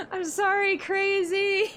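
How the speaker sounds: very high, loud squeal through laughter; high, helpless giggly voice; laughing apology. Real, not acted. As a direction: squeak out an apology while cracking up.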